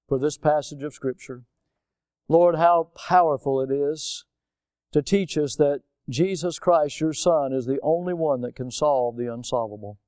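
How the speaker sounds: earnest prayer. Real, not acted. Leads a prayer.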